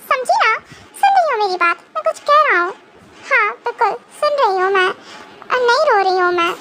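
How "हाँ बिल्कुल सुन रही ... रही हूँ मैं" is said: a touch of tears, holding it in; teary. Acted. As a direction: answer while fighting back tears. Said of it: "तुम रो रही हो क्या?".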